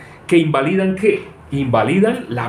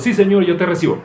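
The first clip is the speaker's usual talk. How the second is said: mock prayer with eyes squeezed, higher and louder; eyes squeezed shut; 7 semitones higher, 4 dB louder than usual. Preacher mocks people squeezing their eyes while praying, strained. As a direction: imitate someone straining through a prayer. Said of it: "Apretando los ojos".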